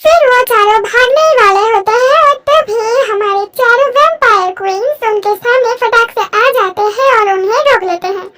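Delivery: dramatic narration of the escape; story narration. A narrator's reading. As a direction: push the action forward like a narrator. Narrator sets the scene.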